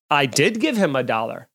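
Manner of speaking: ordinary talk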